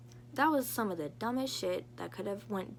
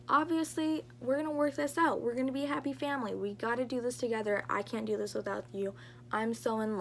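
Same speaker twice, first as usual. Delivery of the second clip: naive and giddy; 2 semitones higher than usual. Retold or imitated. Naive self voiced, back with him.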